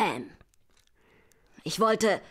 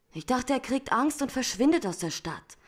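anxious protest; 5 semitones higher than usual. Acted. Woman defends herself, voice rising.

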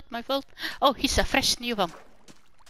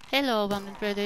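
normal talking voice

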